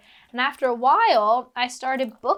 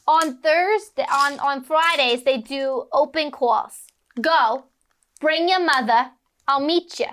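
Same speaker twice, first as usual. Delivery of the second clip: raised smoker agent impression; Edie Robb; 3 semitones higher, 3 dB louder than usual. Agent sending kid to open calls, smoker agent impression. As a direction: give brisk orders as a pack-a-day agent. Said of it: "and she goes".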